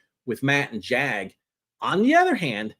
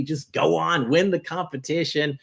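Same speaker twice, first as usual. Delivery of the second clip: over-the-top noble sacrifice, pitched way up; melodramatic farewell; 4 semitones higher than usual. Retold or imitated. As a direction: play the dying hero sending her off. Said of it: "trying to get her all fired up".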